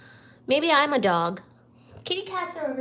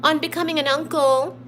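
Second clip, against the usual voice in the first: cheerful; 5 semitones higher, 7 dB louder than usual. Real, not acted. Cheerful loud congratulations.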